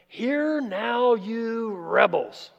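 slow, harsh roar from the throat; roaring rebuke. Shown as a demonstration. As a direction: bellow it at the rebels, drawn out. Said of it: "you can just hear it roaring out of the throat".

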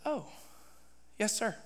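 very soft, small falling reply; chastened submission. Retold or imitated. Preacher answering the Lord's rebuke, chastened and meek. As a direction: answer meekly after being told off.

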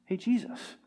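a shy little half-hearted call; mock timid call. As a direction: beggar calling Jesus too softly, mock quiet. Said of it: "didn't just be quiet".

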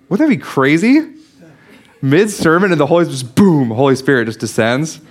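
thrilled disbelief, rising high; excited wonder. Real, not acted. Marvels at Spirit interrupting Peter.

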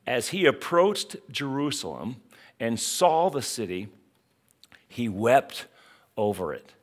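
measured reading of the verse, pausing on wept; solemn Bible reading, lingering on wept; slow scripture reading. Shown as a demonstration. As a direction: read it out slowly with weight. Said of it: "As Jesus approached Jerusalem, he saw the city".

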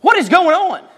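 high, loud worried mother; mock alarmed mom; concerned mom. Mom hearing her son bawling in the van. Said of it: "my mom goes".

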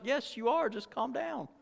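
high-pitched, softening retort as the wife; wife calming husband. Acted. Wife telling excited husband to calm down, high voice. Acted wife answering his raised voice.

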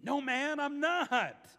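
retorting. A narrator's reading. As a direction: snap back at the accuser. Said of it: "Peter retorted".

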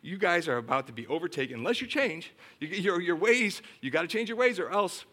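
mild, insistent retold warning; Jeremiah. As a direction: plead with a stubborn people to change. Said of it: "prophet Jeremiah and says".

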